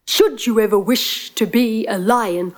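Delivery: stately lion granting magic. Acted. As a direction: pronounce it as a solemn regal lion. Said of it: "the lion stepped forward and said".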